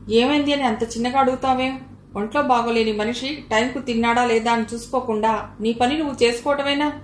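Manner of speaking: a mother-in-law's mild rebuke, lifted a notch. Acted. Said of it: "కాస్త గొంతు పెద్దది చేసి".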